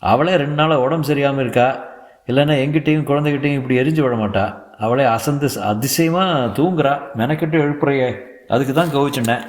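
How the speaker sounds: hearty elder husband explaining; jovial husband. Acted. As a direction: brush it all aside breezily. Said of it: "சுப்புனி பெருசாக சிரிக்கிறான்".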